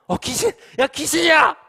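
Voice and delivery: very high, very loud shout of alarm; terrified yelling. Acted. Disciples mistaking Jesus for a ghost, terrified yell. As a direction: yell out as if you've seen a ghost. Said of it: "소리 질렀대요".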